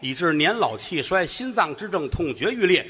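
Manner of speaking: formal, rhythmic eulogy recitation; hammed-up funeral oration; mock eulogy. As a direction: recite like a solemn funeral speaker.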